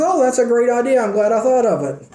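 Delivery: a hint of a chuffed old man taking credit; pleased old father. Isaac voiced in the story.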